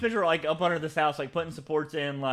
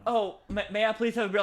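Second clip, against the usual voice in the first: higher, timid imitation; mock pleading; 5 semitones higher than usual. Imitating Spencer under the house asking for beer, meekly pleading. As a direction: ask like a neglected underling.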